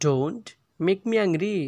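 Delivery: slowly, with a pause after "Don't"; slow repeat. Shown as a demonstration. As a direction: stretch "Don't", then finish the phrase. Teacher repeats phrase slowly.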